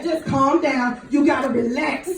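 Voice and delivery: quiet mock-reassuring tone; soothing nurses. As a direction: hush her like a nurse settling a patient. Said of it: "And they said".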